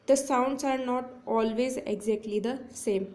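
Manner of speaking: very slow, word by word, like dictating notes; slow dictation. Shown as a demonstration. Teacher dictating a definition to her students, very slow. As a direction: read the definition slowly so students can write it. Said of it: "teacher reads the definition aloud".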